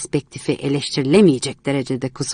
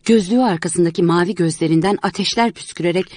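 plain reading voice

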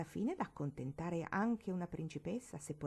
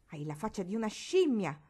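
louder furious insult; beside herself shouting; 2 semitones higher, 5 dB louder than usual. Acted. Marigold beside herself insulting Barbara, louder angry cry. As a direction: lose control and hurl it at her. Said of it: "le gridò Marigold fuori di sé".

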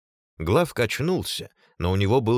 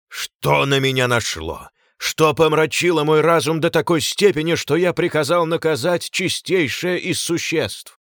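anguished cry; 6 semitones higher, 5 dB louder than usual. A narrator's reading. Glaucus raving in despair.

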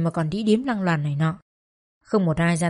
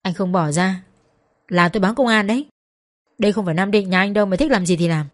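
through gritted teeth. Acted. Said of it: "nghiến răng bảo anh ta".

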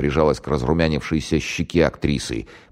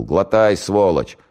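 mock mother scolding; 5 semitones higher, 4 dB louder, slower than usual. Mock mother feeding the son.

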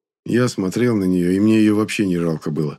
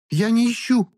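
hurt woman. A narrator's reading. Klara defends.

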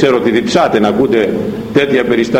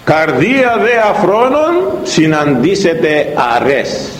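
scripture reading; 4 semitones higher, slower than usual. Acted.

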